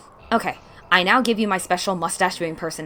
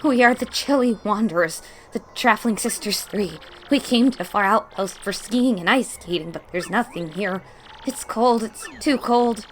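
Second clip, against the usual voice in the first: higher, bright-tempered traveling sister voice; chirpy sisters; 5 semitones higher, 5 dB louder than usual. Acted. Streamer voicing the cold Traveling Sisters, higher and chirpy. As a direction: complain about the cold like a chirpy tourist.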